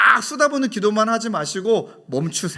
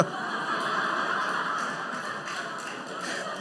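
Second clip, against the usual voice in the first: laughter; 10 dB quieter than usual. Real, not acted. Laughing at own joke.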